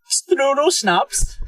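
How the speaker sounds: high, slow Austrian put-on; Austrian accent. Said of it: "Can you do it in your best Austrian accent?".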